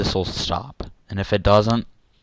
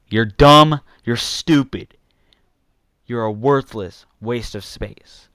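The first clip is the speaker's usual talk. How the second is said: loud, angry jab; angry insult; 4 dB louder, slower than usual. Real, not acted. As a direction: bark it at them. Insults the audience mid-rant.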